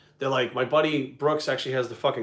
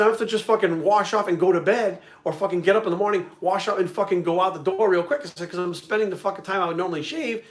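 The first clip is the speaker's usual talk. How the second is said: animated explaining; 5 semitones higher than usual. Retold or imitated.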